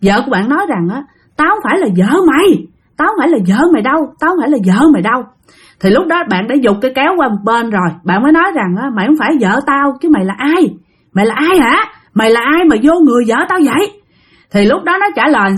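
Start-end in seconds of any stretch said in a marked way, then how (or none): 1.4-5.2 lightly acted possessed wife, fast and higher; quick, insistent denial from a possessed woman; mock menace, pitched up and rushed; hoarse possessed growl. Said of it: "vợ của bạn mới gằn lên, mà cái tiếng ... khan khát". 8.9-13.9 heated, fast questions, slightly raised pitch; indignant husband challenging a spirit; angry confrontation. Acted.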